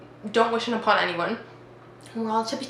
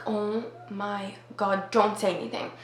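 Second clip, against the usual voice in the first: hushed dread; 6 dB quieter than usual. Retold or imitated. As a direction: plead under your breath while hiding. Hiding group silently pleading.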